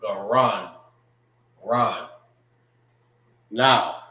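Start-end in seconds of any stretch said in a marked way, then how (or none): 0.0-2.1 "Garan" as gah-RAHN, then "Ran" alone as RAHN; "Garan. Ran." ending like "on"; Hebrew pronunciation. Shown as a demonstration. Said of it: "how you say throat in the Hebrew".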